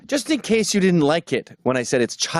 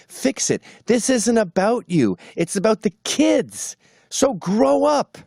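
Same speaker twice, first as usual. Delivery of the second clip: scolding; 7 semitones higher, slower than usual. Real, not acted. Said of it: "scolding divorcers".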